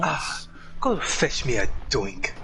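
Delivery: slow, lightly haughty order; rich snob. Acted. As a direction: order a servant around lazily. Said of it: "imagine a rich bastard".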